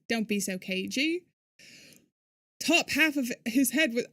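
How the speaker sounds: put-on British accent for game dialogue; casual imitation British. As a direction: read it in an amateur British accent. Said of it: "this is my British accent".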